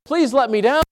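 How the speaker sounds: lightly acted scared bird; scared little bird. Pastor as the baby bird lifted up high, mildly scared plea. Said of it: "and the bird gets scared".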